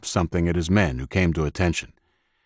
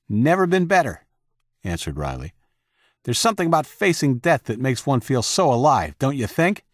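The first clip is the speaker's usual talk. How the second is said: exhilarated; 6 semitones higher than usual. A narrator's reading. Exhilarated president after battle.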